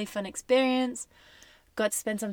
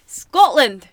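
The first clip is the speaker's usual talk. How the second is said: mock Scottish accent; 4 semitones higher, 14 dB louder than usual. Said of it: "just as bad".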